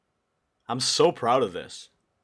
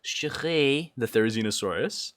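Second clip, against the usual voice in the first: French accent. Shown as a demonstration. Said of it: "in a French accent".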